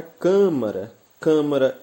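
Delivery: "câmara" with a strong first syllable "câ"; "câmara, câmara", hitting the opening syllable each time; stress on CÂ. Shown as a demonstration. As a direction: punch "câ" and let "mara" drop away. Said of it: "a sílaba tônica encontra-se na antepenúltima".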